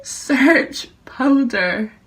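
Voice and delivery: very slow, drawn out command; repeating to voice assistant. Real, not acted. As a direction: stretch each word for the machine. Repeats again, assistant mishears.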